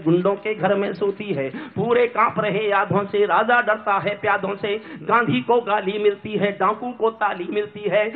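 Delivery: measured, rhythmic verse delivery; declaimed verse in a steady cadence; poem recitation. Acted. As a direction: recite it as stage poetry.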